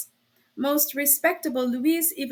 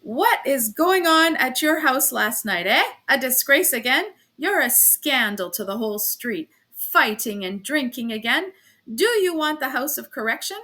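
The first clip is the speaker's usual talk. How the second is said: angry scolding. Acted. Officer berating the landlady.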